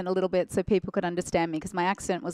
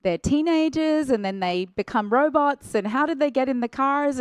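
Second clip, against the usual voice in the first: confused; 5 semitones higher, 3 dB louder than usual. Retold or imitated. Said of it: "I was like".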